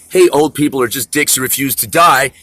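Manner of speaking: put-on loud scornful jab at old people; retold scolding. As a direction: spit it out at them, fed up. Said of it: "And I say".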